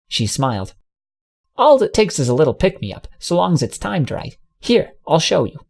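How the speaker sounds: lightly voiced mare telling a scared pony he's fine; lightly voiced folksy mare. Ambrosia's voice.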